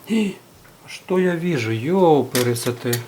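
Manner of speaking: stunned, stretch the exclamation; surprised discovery. Real, not acted. Spots an unsoldered leg. (удивлённо, протяжно)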